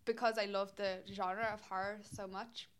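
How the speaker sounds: slurring around chewing gum. Real, not acted. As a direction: talk with gum in your mouth. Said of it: "I've got gum in my mouth".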